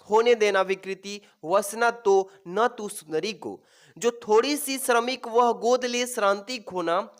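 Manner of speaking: measured verse reading; deliberate classroom poem reading, lingering on line ends; poem recitation. Acted. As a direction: recite the stanza phrase by phrase. Reads verse aloud from the passage.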